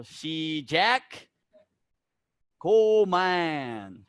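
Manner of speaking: loud, drawn-out command calls; barked commands. Shown as a demonstration. Instructor demonstrating how to call start and stop to students. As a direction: call 시작 and 고만 out to the class. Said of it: "Don't go slow".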